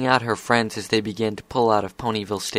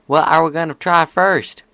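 high, loud eager filly voice; Applebloom; 6 semitones higher, 7 dB louder than usual. A narrator's reading. Filly asking her friends what to try first, eager. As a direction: pitch it up like an excited kid pony.

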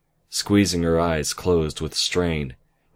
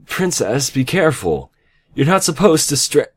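high, loud warning; panicked high-pitched warning; alarmed cry; 10 semitones higher, 6 dB louder than usual. A narrator's reading. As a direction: cry out in alarm, cut off mid-word. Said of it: "Band-Aid cried out".

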